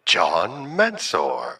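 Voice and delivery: slow, drawn-out announcer call; train station announcement. Pretend. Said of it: "He's not at a railway platform station".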